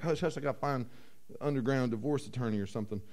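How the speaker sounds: low, soft conspiratorial aside; acted furtive undertone; hushed, secretive. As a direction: keep it down like you're hiding a scandal. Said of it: "trying to be quiet about it".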